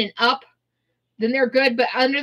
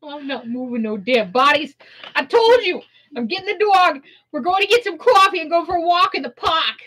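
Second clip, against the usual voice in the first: higher, sassy dismissive voice; sassy attitude; 3 semitones higher than usual. Acted. Refusing to deal with the corpses, sassy. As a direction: wave it all off with attitude. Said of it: "we have to get that attitude with that accent".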